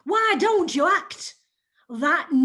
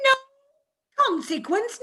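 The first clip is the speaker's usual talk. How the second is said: higher, slow, sneering repeat; scornful mocking echo; 9 semitones higher, slower than usual. Mrs Squeers mocks her husband's words, scornful. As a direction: throw his words back at him.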